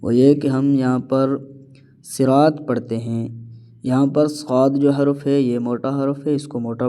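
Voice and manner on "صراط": "صراط" with light s, r and t; thin letters. Shown as a demonstration. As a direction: say "صراط" thinly as si-raat. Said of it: "ہم اس کو باریک پڑھتے ہیں". ("صراط" باریک حروف کے ساتھ)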